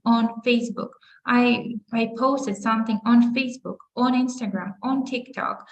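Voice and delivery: "on" given clear weight before each network name; stress on ON. Shown as a demonstration. Teacher drills the preposition for social networks, stress on ON. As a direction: lean on every "on". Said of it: "у нас буде наголос on".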